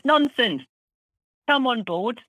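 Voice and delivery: hearty welcome. Retold or imitated. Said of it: "and he said".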